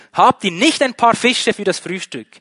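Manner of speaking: loud, high-pitched hail; calling out. Acted. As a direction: shout a question to people far off. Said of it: "rief er ihnen zu".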